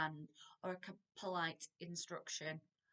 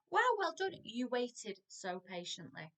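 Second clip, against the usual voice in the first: enthusiastic praise; 3 semitones higher than usual. Shown as a demonstration. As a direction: cheer the child on. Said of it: "praising child demo".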